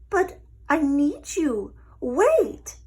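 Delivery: high, loud desperate plea; pleading lizard. A narrator's reading. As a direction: call after her desperately. Lizard begs her to wait.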